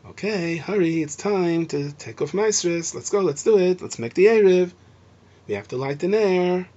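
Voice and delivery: gentle, friendly coaxing; calm and nice. Shown as a demonstration. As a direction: nudge the family along kindly. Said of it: "You're supposed to say".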